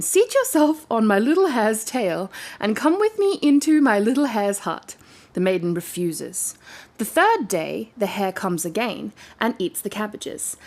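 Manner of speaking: steady storybook reading voice; story narration. A narrator's reading. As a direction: read it like a bedtime tale. Reading a fairy tale aloud.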